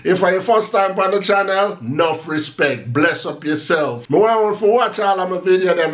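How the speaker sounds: a vlog intro in a light Jamaican Patois voice; Jamaican Patois demo. Shown as a demonstration. Vlogger showing how his channel intro would sound, in Jamaican Patois. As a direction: greet the viewers Patois style, relaxed and easy. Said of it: "let me just demonstrate how would that sound".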